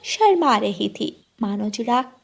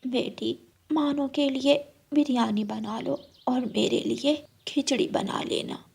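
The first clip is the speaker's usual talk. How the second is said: put-on hushed elderly voice; whispering old mother-in-law; 2 semitones higher, 7 dB quieter than usual. Mother-in-law handing duties to new bride, hushed. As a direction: speak as a tired old woman.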